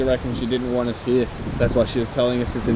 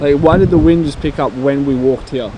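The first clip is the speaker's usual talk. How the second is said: raised voice over the gusts; shouting over wind; 3 semitones higher, 8 dB louder than usual. Real, not acted. Wind roaring at the graves.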